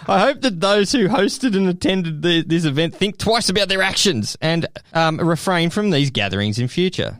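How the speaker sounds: resume the put-on English statement; a touch of hammed-up English accent; bad English accent. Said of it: "That was the worst English accent ever".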